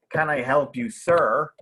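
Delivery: formal. Shown as a demonstration. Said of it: "which is very formal".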